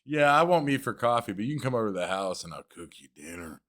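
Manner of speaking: understated creepy come-on impression; imitating a creeper invite. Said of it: "that's pretty much how you sound".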